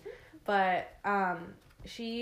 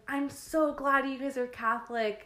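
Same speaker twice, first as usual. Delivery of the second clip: high, loud and thrilled; excited; 6 semitones higher, 6 dB louder than usual. Retold or imitated. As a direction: gush it happily. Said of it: "so excited".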